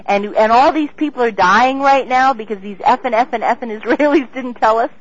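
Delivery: reliving the yelling down the phone at him; retold furious rant. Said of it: "And I was screaming".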